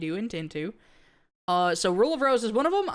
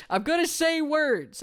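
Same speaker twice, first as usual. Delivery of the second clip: higher, playful repeat; playful emphasis; 8 semitones higher than usual. Shown as a demonstration. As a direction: bounce it up with amusement.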